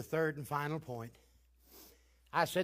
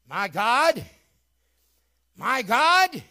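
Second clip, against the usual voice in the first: louder, climbing cry; rising cry; 6 semitones higher, 16 dB louder, much slower than usual. Acted. Jesus calling to God: building loud cry. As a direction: let it build upward. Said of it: "So now he says".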